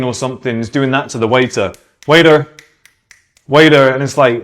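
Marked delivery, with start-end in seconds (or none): 2.1-3.9 rude loud calling. Retold or imitated. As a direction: call out loud and rude across the restaurant. Obnoxious tourist calling a waiter.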